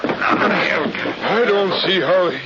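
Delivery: slow, choked words with a catch of crying; shaken, near tears. Acted. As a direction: stammer it out, breaking up at the sight. Barney sees the dead man.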